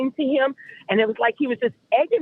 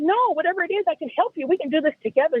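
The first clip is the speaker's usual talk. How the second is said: higher, insistent offer of help; insistent reassurance; 5 semitones higher than usual. Retold or imitated. Girlfriend insists she can help troubled partner, higher voice. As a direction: push back, pitched up, to reassure him. Pleading to help him, retold.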